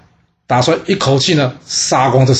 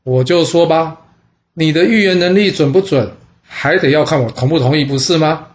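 mocking taunt; 3 semitones higher than usual. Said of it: "他挖苦公子宋说".

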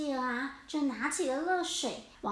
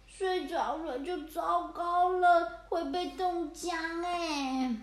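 slow, drowsy fretting; sleepy worried cats; 3 semitones higher, slower than usual. Acted. Freezing cats warning each other, slow and drowsy. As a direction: fight off sleep as you speak.

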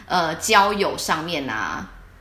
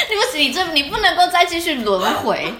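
laughing through the words; cracking up mid-sentence, high and loud; 9 semitones higher, 4 dB louder than usual. Real, not acted. To her co-host after the rebirth joke, laughing.

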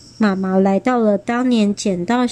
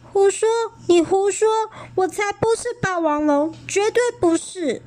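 angry denial; 10 semitones higher than usual. A narrator's reading. Child denying furiously.

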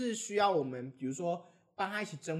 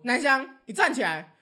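teacher calling out; 6 semitones higher, 8 dB louder than usual. Retold or imitated. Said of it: "老师就突然说".

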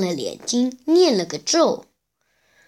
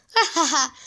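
laughing, pitched up in delight; 3 semitones higher than usual. Acted. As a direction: laugh through the good news. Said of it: "悟空的脸笑了". (悟空高兴地笑着说)

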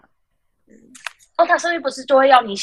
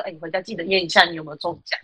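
fake concern; 4 semitones lower, faster than usual. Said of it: "我还假意提醒他说".

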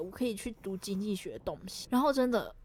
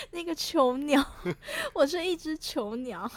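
hammed-up lament; 5 semitones higher, slower than usual. Hams up caged bird lament.

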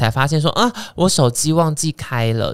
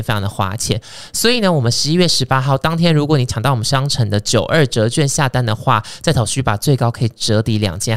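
ad read. Acted. Host reading a sponsor ad to listeners, salesy. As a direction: read the sponsor spot like a pitch. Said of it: "好，业配结束".

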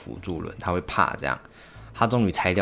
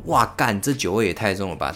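loud 哇，干 then it settles; mock shock at strong whisky; strong-taste shout; 4 dB louder than usual. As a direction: burst out at the burn of the drink. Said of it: "然后".

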